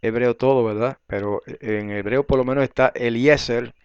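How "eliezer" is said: Eliezer as said in Hebrew; pronúncia hebraica. Shown as a demonstration. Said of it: "el hebreo dice Eliezer".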